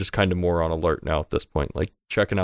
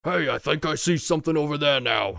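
high-pitched guard's call; put-on voice of a guard raising the alarm; 8 semitones higher than usual. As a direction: alert the other guards from across camp. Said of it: "you hear another one like".

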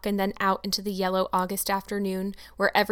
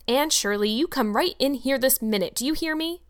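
raised call across the yard, pitch climbing at the end; 4 semitones higher, 3 dB louder than usual. Acted. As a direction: summon the girl in firmly from afar. Marilla calls Anne inside.

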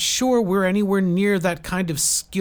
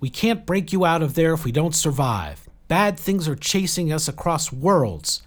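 high, insistent, raised voice; urgent plea; 8 semitones higher, 5 dB louder than usual. A narrator's reading. Jill pleading with Saradwan for help, urgent. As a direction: push past the objection and plead for help.

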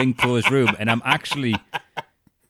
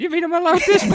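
very high, giddy disbelief; amazed; 7 dB louder, faster than usual. Retold or imitated. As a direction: squeal it in delighted disbelief. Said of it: "He went".

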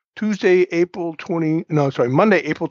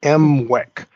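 slow; 3 dB louder than usual. Shown as a demonstration. Host spelling out a funny acronym for listeners, slowly. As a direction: say "M wec" slowly and distinctly. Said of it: "and I'll say it slowly".

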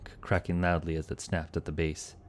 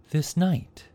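high, louder eager start; urgent question; 12 semitones higher, 6 dB louder than usual. A narrator's reading. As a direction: press the stranger for answers. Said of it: "Shiva began".

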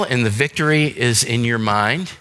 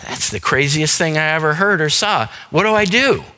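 exasperated disbelief; 4 semitones higher than usual. Retold or imitated. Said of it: "you say to yourself".

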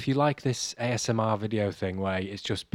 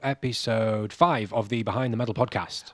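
announcer; slower than usual. Acted. Show opening announcement.

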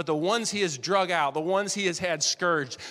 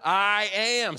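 "I am" stressed, louder; emphatic; 3 semitones higher, 4 dB louder than usual. Shown as a demonstration. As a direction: lean into the words. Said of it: "the most important part".

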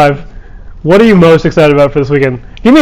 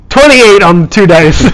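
drawn-out; 3 semitones higher, much slower than usual. Pretend. Mock drawn-out report of needed roll.

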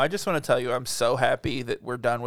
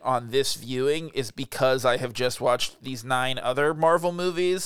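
slow, drawn-out delivery; slow deliberate talk. Real, not acted. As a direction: stretch each word out slowly. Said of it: "Are you talking weird?".

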